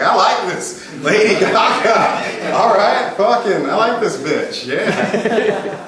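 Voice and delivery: drawn-out, musical mock approval; mock enthusiasm. Coach mimics a fan of a pop singer, mock enthusiasm. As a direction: savour it with a laugh in it.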